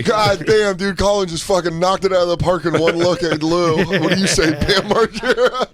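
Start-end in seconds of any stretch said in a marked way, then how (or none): 4.0-5.7 laughing. Real, not acted. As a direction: say it through laughter. Repeating the funny line.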